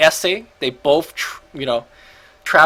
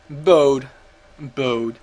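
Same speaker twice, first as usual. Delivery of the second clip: European accent attempt; 3 dB louder than usual. Shown as a demonstration. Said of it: "Trying to say that with a very European accent".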